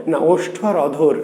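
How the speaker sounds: ওষ্ঠ আর অধর spelled out slowly, each word set apart; slow it down so the class catches ওষ্ঠ আর অধর; slow correction. Shown as a demonstration. Teacher correcting a student, slowly stressing each term. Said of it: "teacher corrects the answer".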